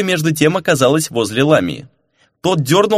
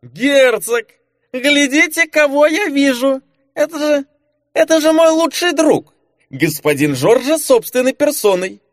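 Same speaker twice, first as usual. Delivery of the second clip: put-on drunken shout; 13 semitones higher than usual. Drunk marquis yells a greeting at the traitor, hammed-up shout. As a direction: bellow like a merry drunk spotting a friend. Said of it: "и заорал".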